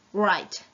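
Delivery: write said as "rite", no W sound; silent W. Shown as a demonstration. Teacher drilling pupils on write with silent W. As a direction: drop the W in write, just "rite". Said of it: "you don't pronounce the W".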